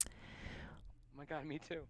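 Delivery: right in your ear. Acted. Joins the close-mic whisper.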